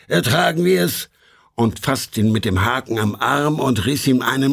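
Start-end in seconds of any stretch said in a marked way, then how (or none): 0.1-1.1 impatient shout. Acted. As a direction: spit it out, fed up. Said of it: "rief da der Feuerrot".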